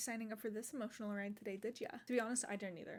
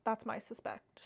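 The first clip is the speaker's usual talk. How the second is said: whispered aside; 4 dB louder than usual. Real, not acted.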